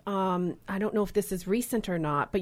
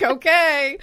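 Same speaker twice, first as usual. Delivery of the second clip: laughing okay; 7 semitones higher, 8 dB louder than usual. Retold or imitated. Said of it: "I'm like".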